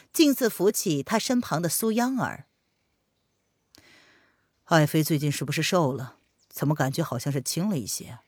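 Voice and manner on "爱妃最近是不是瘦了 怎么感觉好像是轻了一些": emperor voice. Acted. Emperor fondly speaks to consort.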